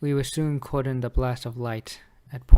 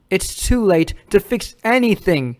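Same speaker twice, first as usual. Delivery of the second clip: higher, emphatic imitation of an opponent; insistent quote; 5 semitones higher, 4 dB louder than usual. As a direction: press his point home, heatedly. Retelling a rapper's argument against him.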